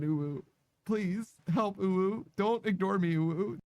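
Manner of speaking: high, breathy cutesy voice; breathy cutesy ooh. Pretend. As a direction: coo each ooh like a cute whine. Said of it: "for me to count ooh as a word".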